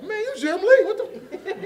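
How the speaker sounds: very high, loud squeal; hammed-up incredulous yelp; starstruck outburst. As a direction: blurt it out in awe, way up high.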